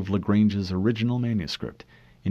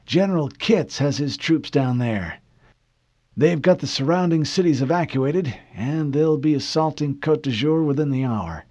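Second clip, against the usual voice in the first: put-on high, confident old admiral; boastful old admiral; 5 semitones higher than usual. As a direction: brag about the troops. Admiral brags.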